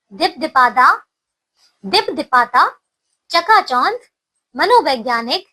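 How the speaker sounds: each word said alone and carefully, with pauses between; pronunciation drill. Shown as a demonstration. Teacher leading children in a word drill, clear and deliberate. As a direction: call out each word clearly for the class to repeat. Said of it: "पहले मेरे साथ बोलिए इन शब्दों को".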